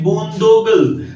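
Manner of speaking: बूंदोगल said clearly and falling, as a model; teacher models बूंदोगल; careful pronunciation. Shown as a demonstration. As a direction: sound out बूंदोगल for the class. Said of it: "इसका pronunciation है".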